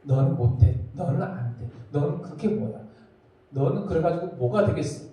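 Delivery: low, sneering accuser; devil's taunt. Retold or imitated. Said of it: "이것이 마귀가 하는 거야". (낮은 목소리로 비웃는 마귀)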